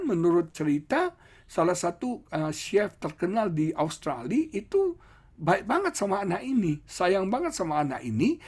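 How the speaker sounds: normal talking voice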